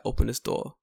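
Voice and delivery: firm London voice at normal volume; controlled London street demand. Acted. Man confronting kids at their car, firm London voice. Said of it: "Let's get my London voice ready".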